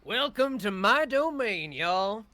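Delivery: drawling Southern villain greeting; booming villain welcome. Acted. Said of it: "And he's like".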